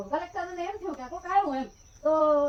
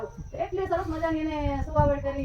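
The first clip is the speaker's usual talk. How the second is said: fighting back a sob as she tells it; tearful. Real, not acted. Teller moved by the mother's devotion, tearful. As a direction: voice catching with tears. Mother secretly nursing grandson's birth.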